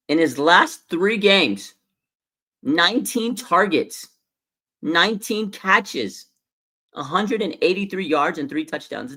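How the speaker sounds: slow, loud and high, savouring each number; hyped, drawn-out count of the numbers; excited stat read. Real, not acted. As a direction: lean into every stat like it's unbelievable. Reading out Kittle's stats, amazed.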